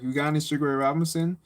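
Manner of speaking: fast, offhand street phrasing; quick casual ask. Retold or imitated. Asking the gym teacher for tapes, fast and offhand. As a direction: toss the question off quickly, casual. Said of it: "I didn't say it like that".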